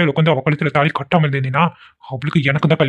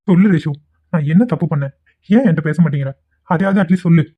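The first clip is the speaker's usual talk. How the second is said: pushy pleading; 2 semitones higher than usual. Acted. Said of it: "இப்படி drama பண்றானே".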